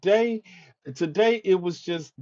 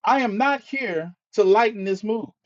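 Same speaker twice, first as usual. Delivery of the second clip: firm rebuttal; 5 semitones higher than usual. Real, not acted.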